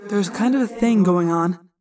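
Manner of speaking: echoing telepathic voice; thought-speak message. A narrator's reading. Tobias calls down to friends by thought-speak, echoing. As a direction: speak as a voice inside the head, with echo. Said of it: "but Tobias went on".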